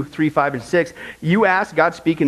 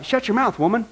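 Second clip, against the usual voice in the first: stern rebuke; 2 semitones higher than usual. Retold or imitated. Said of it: "his wife even came up to him".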